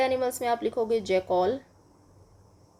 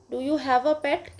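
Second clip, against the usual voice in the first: slow reading aloud; 4 semitones higher, 3 dB louder, much slower than usual. Shown as a demonstration. Teacher reads question to class.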